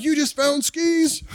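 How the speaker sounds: high, slow, drawn-out amazement; mock excited kid. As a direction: gush in a high voice over a surprise gift. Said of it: "We're so excited".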